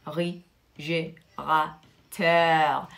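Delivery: réfrigérateur said very slowly, each syllable apart; slow model word. Shown as a demonstration. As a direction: spell out réfrigérateur slowly for the class. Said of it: "Il faut le pro-, euh, le prononcer réfrigérateur". (réfrigérateur dit très lentement, syllabe par syllabe)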